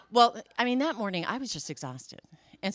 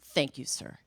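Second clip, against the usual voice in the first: stiff agent voice; 6 semitones lower, 3 dB quieter than usual. Retold or imitated. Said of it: "he says".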